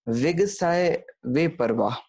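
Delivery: वे परवाह ended on h, slow and measured; slow scripture line, परवाह with no o; careful recitation. Shown as a demonstration. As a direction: recite विगसाय वे परवाह slowly without a final o. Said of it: "वे परवाहो नहीं पढ़ेंगे".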